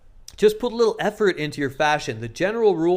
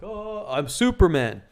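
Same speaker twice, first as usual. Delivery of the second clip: confident Superman; 3 semitones higher, slower than usual. Shown as a demonstration. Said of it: "you're like".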